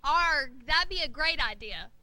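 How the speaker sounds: loud pirate enthusiasm; excited pirate. Acted. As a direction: growl happily as a pirate. Pirate enthused about hat shop.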